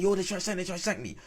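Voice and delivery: high, frantic imitation of a panicked friend; mock panicked yell. Retelling his friend's panic, high frantic yell. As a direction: squeal it like you're fleeing. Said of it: "running towards me saying".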